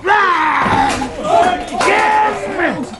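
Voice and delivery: high, loud explosive cry; sharp, loud angry cry; enraged outburst. Acted. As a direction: erupt in fury. Captain enraged by the insult.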